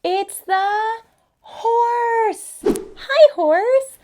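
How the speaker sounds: high, loud excited greeting. Acted. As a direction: squeal out the discovery. Excited reveal of horse.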